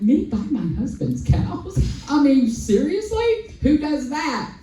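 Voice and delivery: disbelieving rise up high on seriously; drawn-out seriously, high and amazed; incredulous. Retold or imitated. To her vegan friends, she asks in high, drawn-out disbelief.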